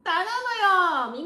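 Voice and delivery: high, loud fangirl squeal; playful, high-pitched swooning plea; fangirl calling out. Pretend. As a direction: call out to your idol with a mock proposal. Fangirl calls out to the singer.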